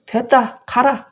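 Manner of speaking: father sending the son away; cold dismissal. Retold or imitated. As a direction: dismiss him coldly. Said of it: "이렇게 한 거예요".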